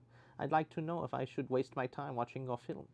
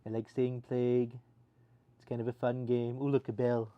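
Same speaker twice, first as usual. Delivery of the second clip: light mock German accent, a bit louder; 5 dB louder than usual. Streamer plays a game in a light mock German accent. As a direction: keep the playful hint of a German accent. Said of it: "speak a German".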